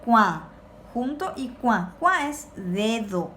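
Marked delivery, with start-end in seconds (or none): 0.1-0.4 "Cua" loud, with its A through the nose; loud demonstration of nasal "Cua". Shown as a demonstration. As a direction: model "Cua" ending in a nasal A. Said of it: "la A nasal se va a leer A".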